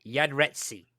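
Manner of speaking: "Yadretsi" as yesterday read backwards, ya-DRET-see; backwards speech. Real, not acted. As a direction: say "Yadretsi", yesterday spelled in reverse. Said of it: "and I said it backwards".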